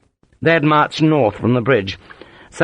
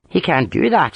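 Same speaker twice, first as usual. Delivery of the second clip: put-on Ulster accent; 6 semitones higher than usual. A narrator's reading. Harper answering in his accent.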